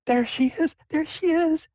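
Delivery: very high, gushing falsetto mom; excited mom. Acted. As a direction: squeal it like an overjoyed mother. Excited mom spotting her daughter.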